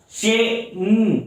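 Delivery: "शेम" stretched, the final m held apart; "शेम" very slow, ending on a separate hum; stressed syllable. Shown as a demonstration. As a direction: draw "शेम" out into its sounds. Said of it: "sir stress है".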